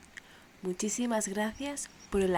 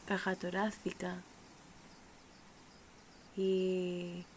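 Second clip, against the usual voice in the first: unhurried meditation voice with long pauses; measured, calm breathing-exercise delivery; guided meditation; 3 dB quieter than usual. Acted. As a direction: guide the listener gently through breathing, leaving space between phrases.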